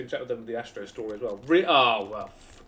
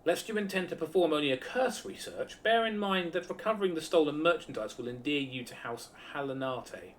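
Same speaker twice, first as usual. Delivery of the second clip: northern character voice; 2 semitones higher than usual. Acted. Voices Sean Bean-like NPC.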